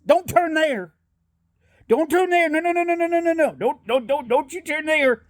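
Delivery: high, insistent stream of warnings; frantic direction-giver. Acted. Local warning a driver off a turn, high frantic fluster. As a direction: pitch way up and repeat it in a comic fluster.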